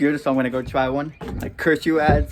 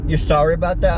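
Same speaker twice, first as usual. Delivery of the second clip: mock disbelief, a touch louder, with a rise at the end; incredulous echo; 2 semitones higher, 4 dB louder than usual. The angry lady mimicked echoing his apology, mock incredulous. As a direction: throw his apology back at him, lightly. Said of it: "she's like".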